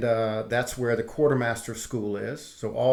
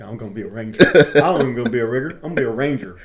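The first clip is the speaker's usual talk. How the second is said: gleeful daydreaming; 10 dB louder, faster than usual. Retold or imitated. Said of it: "And I'm all happy".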